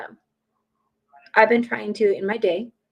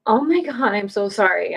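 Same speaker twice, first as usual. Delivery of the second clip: gushing sympathy; 4 dB louder than usual. Retold or imitated. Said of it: "those people that are like".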